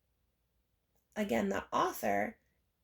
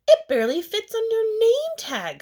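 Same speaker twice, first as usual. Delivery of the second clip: put-on high, loud, snooty child voice; mocking classmate; 12 semitones higher, 8 dB louder than usual. Rita mocking Chrysanthemum's long name tag, high and snide. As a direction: sneer it like a mean kid.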